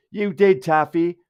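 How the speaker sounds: high, loud retort in someone else's voice; mock accusation. Acting out an accusation.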